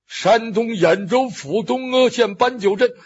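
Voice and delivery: lightly put-on Shandong accent. Luo Cheng memorises a false home town, Shandong accent. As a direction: practise the place name in Shandong dialect. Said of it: "我得变出山东味儿来".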